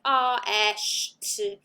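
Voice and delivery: R, S, T said as separate speech sounds; phoneme sounds. Shown as a demonstration. Teacher gives examples of basic sound units, sounded out separately. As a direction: sound out "R, S, T", not letter names. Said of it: "basic sound units like".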